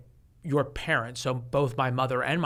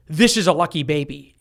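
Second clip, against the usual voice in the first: lightly voiced calm doctor; steady, matter-of-fact doctor, barely acted; mild doctor's announcement in the speaker's own voice; doctor's line; 6 dB louder than usual. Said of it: "doctor goes".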